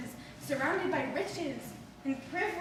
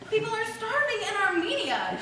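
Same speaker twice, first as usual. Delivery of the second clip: grandmother's saying; 5 semitones higher, 4 dB louder than usual. Retold or imitated. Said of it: "she'd say".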